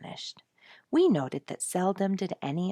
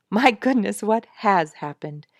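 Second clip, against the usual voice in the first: curious exclamation; 4 semitones higher, 8 dB louder than usual. A narrator's reading. Eager to hear news.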